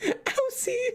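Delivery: high mocking voice, laughing into Aussie; lightly voiced taunt of "Aussie"; squeaky mock of "Aussie". Mocks chat's pronunciation.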